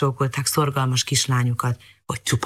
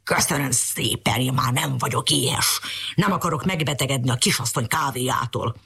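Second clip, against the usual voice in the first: grumbling dog. Acted. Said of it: "elvicsorította a száját".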